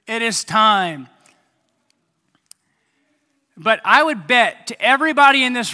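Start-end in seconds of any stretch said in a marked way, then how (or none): 0.1-1.1 excited reply. Retold or imitated. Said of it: "I said".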